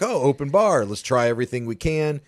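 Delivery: mild mock enthusiasm; mock eagerness. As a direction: play the keen first-timer spotting free drinks. Acting out eager visitors at bar.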